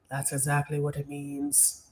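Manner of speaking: low, soft put-on Irish accent. Voicing the man's hoped-for reply, in Irish accent. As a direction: drop down into a mock Irish brogue. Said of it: "Give us more of that Irish".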